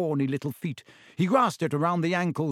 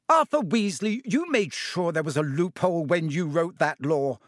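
angry scolding, higher; shouting; 3 semitones higher than usual. Acted. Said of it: "shouted Missus Weasley".

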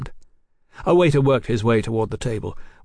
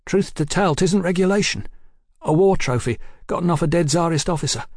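high, chatty soldier's voice; proud soldier brother; 7 semitones higher than usual. Acted. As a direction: show off a war trophy with pride.

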